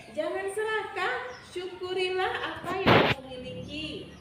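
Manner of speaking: high-pitched storybook maiden; admonishing heavenly maiden. Acted. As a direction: scold him from on high. Bidadari menasihati bujang beji. (bidadari menegur dengan nada tinggi)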